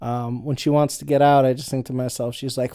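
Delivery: ordinary talk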